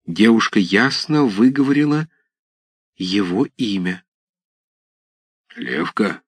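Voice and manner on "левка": low, hoarse half-voiced mutter of a tall man; a hint of a hoarse stranger, low; hoarse undertone. A narrator's reading. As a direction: rasp it under your breath, lower. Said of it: "говорил хриплый вполголоса высокий человек".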